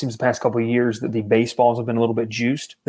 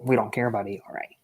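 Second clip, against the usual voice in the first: mock fan; 3 semitones lower, 7 dB quieter than usual. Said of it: "And that's what people say".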